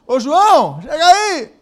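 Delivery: loud, high call across a distance. Retold or imitated. Preacher imitates calling a friend, loud shout. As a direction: holler for a friend to come over. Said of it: "Não é esse grito".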